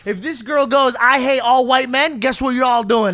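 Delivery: retold scolding. Telling dad house rules.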